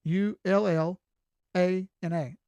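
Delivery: letter by letter, deliberate and emphatic; spelling it out. Shown as a demonstration. Trader teaching outsiders the local name, emphatic spelling. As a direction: spell the local pronunciation out loud. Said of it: "That's just how we say it".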